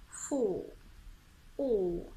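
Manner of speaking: FORK with no R and a long rounded AW; rounded lips. Shown as a demonstration. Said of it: "they are rounded".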